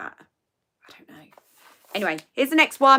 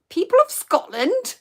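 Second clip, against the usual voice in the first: much higher announcement; calling out; 9 semitones higher than usual. Real, not acted. Giving a clue, calling out to Scottish viewers. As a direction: hail the whole audience.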